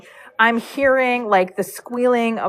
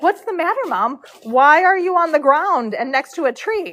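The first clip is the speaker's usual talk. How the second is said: innocent dog voice; 6 semitones higher than usual. Pretend. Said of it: "he's like".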